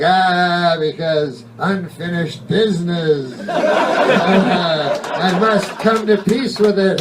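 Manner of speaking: laughing mock ghost moan; whiny ghost. Ghost explains its unfinished business, whiny moan. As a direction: drag out the ghostly complaint. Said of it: "And they're like".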